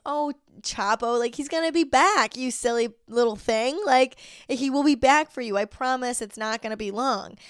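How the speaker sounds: put-on baby the sad dog and promise he'll be back; cooing at the dog. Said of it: "my sister and I were saying".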